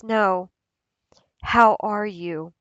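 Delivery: pause, then ask as if you truly mean it; earnest, unhurried check-in; sincere concern. Acted. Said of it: "But then whenever somebody says".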